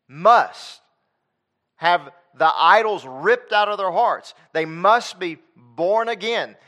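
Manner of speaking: preaching at full force. Acted. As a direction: preach it hard to the pews.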